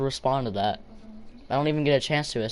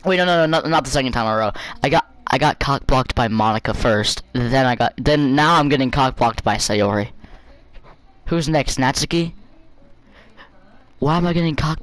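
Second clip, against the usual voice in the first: loud rant; 6 dB louder than usual. Real, not acted. Outraged rant at the game.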